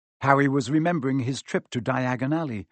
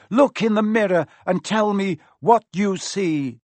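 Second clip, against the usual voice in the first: loud, higher, sharp command; commanding Quirrell; 7 semitones higher, 6 dB louder than usual. Acted. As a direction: summon the boy harshly.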